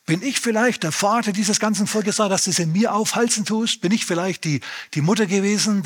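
höher, gespielt empörte Fragen; empörter Mose. Retold or imitated. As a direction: sich höher und vorwurfsvoll beschweren. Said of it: "geht Mose und sagt". (Mose beschwert sich höher und empört bei Gott)

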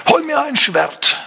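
high, slow royal order to the guard; young king calls for a sword, strained and high; king commanding. Retold or imitated. King Solomon orders his bodyguard, high and slow. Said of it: "Er sagt zum Benaja".

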